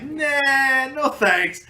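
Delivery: high breezy brush-off; dismissive refusal. Retold or imitated. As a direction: wave it away, no thanks. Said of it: "I was like".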